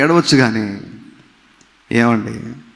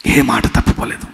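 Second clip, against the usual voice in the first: hushed repeat; 5 semitones lower than usual. Real, not acted. Preacher repeats his point to the congregation in a hushed whisper. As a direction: drop to a near-whisper on the repeat.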